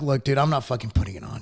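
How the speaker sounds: whispering the retold line to the clerk; hushed, breathy, no voice behind it. Telling the store guy he won't mask, in a whisper.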